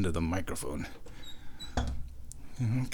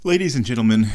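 mock radio announcer; 5 dB louder, much faster than usual. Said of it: "this is just good radio".

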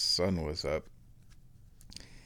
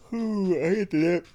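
tired groan; 12 semitones higher, 4 dB louder than usual. Real, not acted. Tired after a bad night.

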